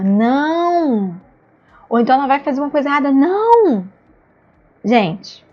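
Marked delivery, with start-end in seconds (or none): 0.0-1.2 NÃO drawn out long in a swooping singsong; stretched-out no. Shown as a demonstration. Adult correcting a child the wrong way, stretched-out no. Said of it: "vai fazer isso de que forma?". 3.1-3.8 NÃO drawn out long, high and loud; stretched-out no. Shown as a demonstration. Adult answering a child's mistake, stretched-out no. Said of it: "esse não estendido".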